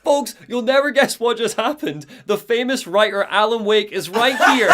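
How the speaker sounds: mildly hyped on-air announcement; lightly acted breathless-news radio patter; excited radio host. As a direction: announce it to listeners with a touch of excitement. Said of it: "so excited".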